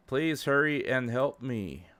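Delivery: high, hurt, pleading character voice; a betrayed girl begging the one who deleted her; high pleading game girl. Acted. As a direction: plead with him in a high, wounded girl's voice. Voices Monika pleading with player.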